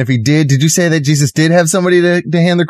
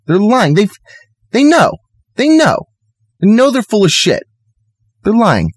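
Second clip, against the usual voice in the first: heated insistence; 8 semitones higher than usual. Real, not acted. Heated insistence, rising pitch.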